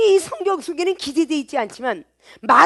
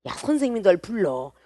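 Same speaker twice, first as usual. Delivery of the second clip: low, soft summons; quiet; 7 semitones lower, 5 dB quieter than usual. Acted. Martha tells Mary the teacher is calling, quietly. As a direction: call her over quietly, anger set aside. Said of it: "화가 났던 모습도 조용히".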